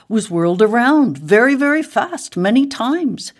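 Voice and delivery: high, lively narration; animated storytelling. A narrator's reading. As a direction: tell it as a whirl, pitch climbing. Narrates boxwood being whirled.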